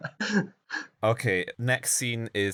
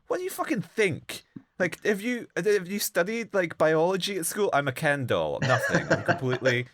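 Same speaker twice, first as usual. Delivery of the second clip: much higher, louder exasperated rant; shrieking mock outrage; high indignant outburst, laughing at the end; 11 semitones higher, 3 dB louder than usual. Real, not acted.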